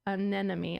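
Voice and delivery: anemone said slowly, each syllable spaced out; slow careful anemone. Shown as a demonstration. Spacing out anemone so she doesn't trip over it. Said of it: "I have to slow down and space it out".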